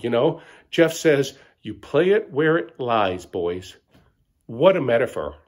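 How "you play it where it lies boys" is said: profound. Retold or imitated. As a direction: say it like deep wisdom. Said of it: "That struck me as so profound".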